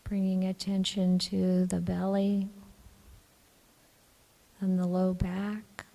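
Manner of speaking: calm, even meditation voice with long pauses; guided meditation. Acted. Teacher guiding the group to relax the body, calm meditation voice. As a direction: gently guide them into relaxing, leaving long silences.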